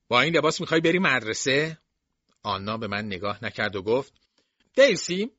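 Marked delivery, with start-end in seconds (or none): 0.1-1.8 scolding. Acted. Jason scolds niece's outfit. 4.8-5.3 high, loud call of a name; girl calling the servant, loud and high. Acted. Anna calls to Dilsey.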